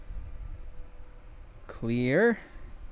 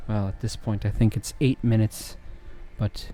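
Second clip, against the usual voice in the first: flirt smoothly, holding back laughter; Smooth Talker voice; 2 semitones lower than usual. Shown as a demonstration. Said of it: "I'll be using this voice".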